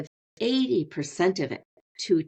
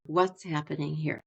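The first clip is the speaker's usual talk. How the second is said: slowed down curious question; 2 semitones lower, 4 dB quieter than usual. Shown as a demonstration. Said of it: "I'm slowing down".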